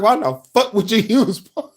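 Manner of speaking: high-pitched laughing imitation; mimicking through laughter. Viewer quoting the cursing ex-pastor, laughing imitation. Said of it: "he said it with such calm conviction".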